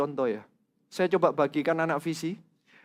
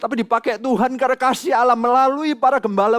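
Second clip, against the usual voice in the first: fervent preaching; 7 semitones higher, 8 dB louder than usual. Acted. Pastor preaching testimony to congregation.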